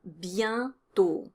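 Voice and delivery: Bientôt with a nasal yen vowel; nasal French vowel. Shown as a demonstration. Teacher shows the nasal vowel in Bientôt. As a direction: glide Bientôt through the nasal yen sound. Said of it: "There's a nasal vowel in bientôt".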